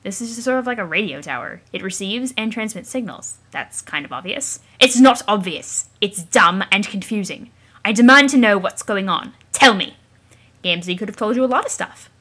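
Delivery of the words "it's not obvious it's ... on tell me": loud, slow insistent demands; angry demand. Acted. Troll demanding the voice explain everything, loud and slow. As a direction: pound each demand out.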